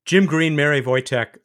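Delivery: measured, clearly projected host read; scripted radio introduction. Acted. Reads a scripted show introduction.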